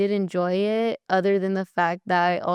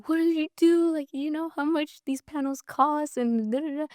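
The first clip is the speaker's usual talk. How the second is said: higher mock scolding, rushing on; imitating dad scolding; 8 semitones higher than usual. Daughter imitating her dad fussing over the panel's cost. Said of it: "and he was like".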